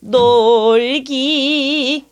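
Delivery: slow 놀기, 놀 bent, 기 vibrating; bending and vibrato. Shown as a demonstration. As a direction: bend 놀 then shake 기. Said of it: "놀 bending and 요성".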